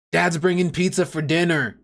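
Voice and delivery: put-on child telling everyone dad is bringing pizza, excited. Shown as a demonstration. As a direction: sound thrilled about the pizza. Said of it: "They're really excited".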